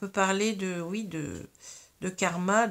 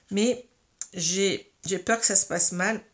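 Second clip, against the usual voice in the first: hiccuping mid-sentence; hiccups. Real, not acted. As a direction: speak through the hiccups. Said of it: "Pardon, j'ai le hoquet".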